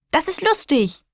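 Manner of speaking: giggly joy while hopping; gleeful. Acted. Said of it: "freut sie sich".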